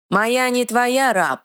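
high, slow broken-speech troll; defiant troll. Acted. Troll refusing the dark lord, slow and defiant. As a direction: spit it out like a simple stubborn troll.

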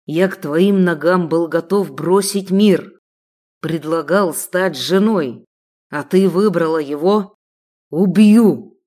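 slow, heavy rage rising to a loud shout; a jealous sheikh explodes; building rage to shout. Acted. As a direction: crescendo into a threat.

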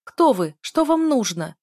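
high, loud panicked questions; frightened shout. Acted. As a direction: demand answers from the gunmen. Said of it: "закричала я". (испуганный громкий крик)

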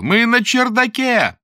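high, loud, drawn-out scream; screaming for help. Acted. Lera screams for help with all her strength. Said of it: "закричала Лера изо всех сил".

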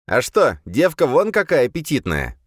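loud, high leering demon. A narrator's reading. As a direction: leer loudly like a lewd demon. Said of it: "раздался в голове голос демона". (похотливый голос демона)

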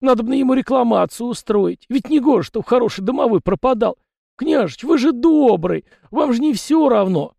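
high loud begging voice; pleading little spirit; pleading yard spirit. A narrator's reading. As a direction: beg the prince for help. Tikhon pleads.

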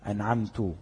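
أنعمت read with a damma on the final ت, أنعمتُ; wrong vowel. Shown as a demonstration. Teacher shows the wrong vowel ending in recitation. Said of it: "هو قرأها إيه؟".

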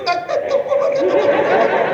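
drawn-out breathy tak tak tak, winding down like a stopped machine; slowing to a stop. Acted. Official's speech stalls as his time is switched off, slowing breathily. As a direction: let the words slow down and die out.

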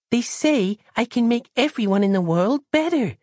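put-on high little girl; small girl voice. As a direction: innocent young child.

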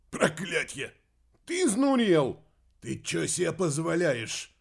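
high, loud startled yelling; startled shouts. A narrator's reading. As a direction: yell in fright at the intruder. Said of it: "Крики вызвал губастый толстяк". (громкие испуганные крики)

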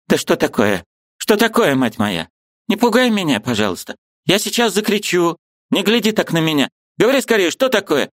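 put-on high, anxious old woman's voice; frightened, pressing for an answer; alarmed old aunt. A narrator's reading. Aunt Marfa alarmed by Liza's look, anxious and high.

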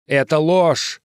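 high, drawn-out cry; shouted protest. A narrator's reading. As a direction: cry out against a lie. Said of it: "закричал Стив".

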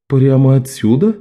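wry skeptical question; amused dry scoff. Acted. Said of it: "хмыкнул Жан".

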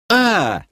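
короткий высокий вопль; вскрикни резко вверх, без надрыва. A narrator's reading. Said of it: "завопил я". (короткий испуганный вскрик)

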